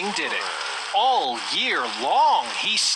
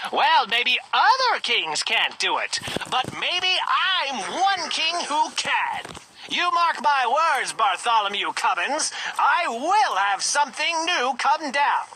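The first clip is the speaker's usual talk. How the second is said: raging king; 5 semitones higher than usual. Acted. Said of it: "flew into a terrible rage".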